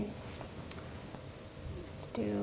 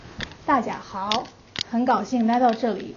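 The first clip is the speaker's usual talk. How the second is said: hometown Mandarin dialect. Shown as a demonstration. Teacher showing the class her hometown variety, in regional Mandarin dialect. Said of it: "In my hometown dialects".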